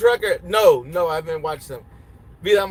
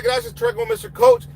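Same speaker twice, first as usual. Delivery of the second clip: much higher, playful thank-you; thanking a viewer in a much higher, playful voice; high-pitched playful thanks. Real, not acted.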